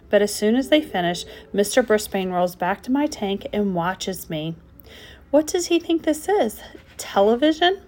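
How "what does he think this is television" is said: exasperated. A narrator's reading. Frog's exasperated thought.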